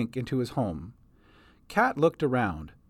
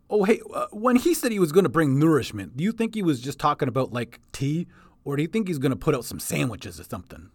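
quick, eager goblin chatter; faster than usual. Acted. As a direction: ramble hungrily like a goblin. Bink the goblin speaks.

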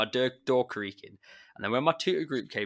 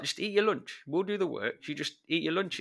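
a much higher, mock-caring pupil voice; imitating the pupils; 7 semitones higher than usual. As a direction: play the fussing kids ordering their teacher to eat. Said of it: "They're just like".

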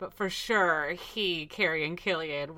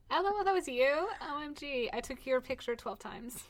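excited; 6 semitones higher, 7 dB quieter than usual. Retold or imitated. Gushing fan quote.

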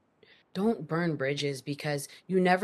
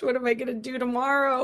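higher, fast anxious muttering; stranded in the city, fretting fast to herself; 7 semitones higher, faster than usual. Retold or imitated. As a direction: rattle off the worry quickly.

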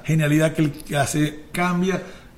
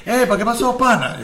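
higher, casual Maracucho greeting; Maracucho street slang; 6 semitones higher than usual. Retold or imitated. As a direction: toss it off like a Maracaibo buddy. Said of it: "que un maracucho le diga a alguien".

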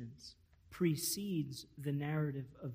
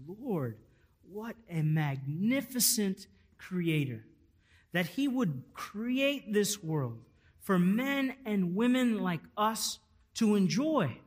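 rising, louder praise to the Lord, slowing down; imagined prayer; 5 semitones higher, 5 dB louder than usual. Pretend. Visitor praying at the beach, building praise. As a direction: swell into awed thanks, building up. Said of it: "you think to yourself".

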